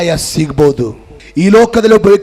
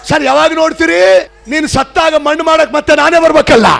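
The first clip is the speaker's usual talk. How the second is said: punchline voice; 8 semitones higher than usual. Retold or imitated. Punchline dialogue in joke.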